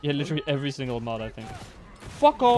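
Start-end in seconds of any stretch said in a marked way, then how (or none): 2.2-2.6 loud high yell; shouting. Real, not acted. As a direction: yell it at the screen. Yelling at the game.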